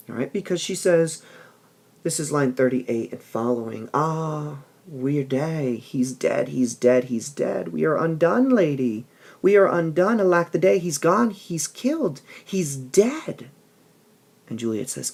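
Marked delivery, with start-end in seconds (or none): 3.9-13.5 lightly voiced nurse wailing, higher; a hint of a grieving old nurse; nurse's lament. Teacher reads the nurse wailing to Juliet, mild lament.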